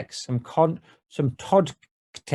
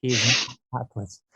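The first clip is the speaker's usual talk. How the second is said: laughing repeat; faster than usual. Shown as a demonstration. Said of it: "I repeat".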